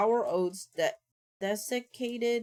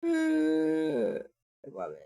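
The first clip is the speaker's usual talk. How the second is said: very slow, higher, sighing whine, "promise" said as "pwomise"; 5 semitones higher, much slower than usual. Acted. Streamer begging Max to believe her, sighing baby-talk whine. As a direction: drag it out with a sulky sigh.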